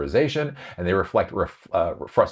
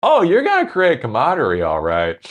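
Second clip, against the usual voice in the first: sarcastic; 7 semitones higher, 5 dB louder than usual. Real, not acted. Sarcastic retort to manager.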